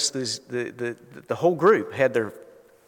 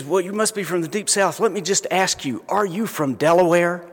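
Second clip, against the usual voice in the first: lightly voiced deli counterman, higher pitch; incredulous deli counterman; 6 semitones higher than usual. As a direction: quote the puzzled counterman, pitched up a little. Counterman quizzes him about his accent.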